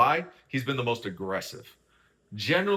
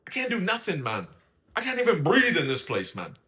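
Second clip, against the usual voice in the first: high, mock exasperated complaint; frustrated Simba; 6 semitones higher than usual. Podcaster imitating Simba complaining about Angie, mock exasperated. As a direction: whine that you can't breathe here.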